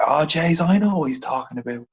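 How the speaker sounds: a touch of Dublin shop-worker; Dublin accent. Retold or imitated. Shop worker steps in to help a customer, imitated Dublin accent. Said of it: "she's a bit of a double accent like you".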